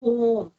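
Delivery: "Home" with a long, rounded O; clear O sound. Shown as a demonstration. Teacher showing students the O sound, long O in "Home". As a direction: draw out the O in "Home". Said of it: "is not pronounced as the O".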